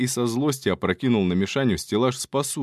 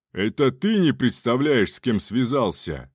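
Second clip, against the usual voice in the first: haughty aristocrat. Acted. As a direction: throw the threat back grandly. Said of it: "надменным пафосным модуляциям".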